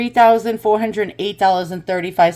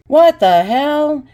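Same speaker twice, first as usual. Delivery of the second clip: higher and louder, slow stunned exclamation; shocked surprise; 7 semitones higher, 5 dB louder, slower than usual. Real, not acted. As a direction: gape at the price tag. Shocked by high price.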